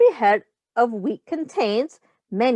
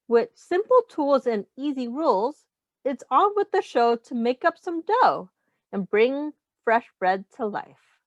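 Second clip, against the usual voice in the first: put-on reading to children; 2 semitones higher than usual. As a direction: read the rhyme aloud to the class. Reads picture book to children.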